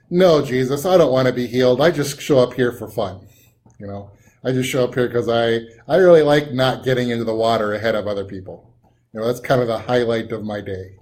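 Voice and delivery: dry mock sarcasm, quick and offhand; sneering sarcastic reply. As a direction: say it as a grumpy man who thinks the question is stupid. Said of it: "in kind of a sarcastic way".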